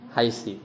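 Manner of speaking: haisi with a final i; i ending. Shown as a demonstration. Teacher showing a third dialect's reading, haisi ending in i. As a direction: end haisi on an i vowel. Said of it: "sebagian dialek bacanya".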